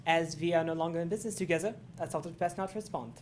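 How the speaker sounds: fast, clipped German lawyer line; German accent. Shown as a demonstration. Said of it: "Let's hear something".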